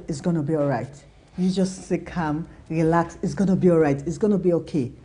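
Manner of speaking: a friend saying it's all right; calm reassurance. Retold or imitated. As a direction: settle them down gently. Friends calmly reassuring her.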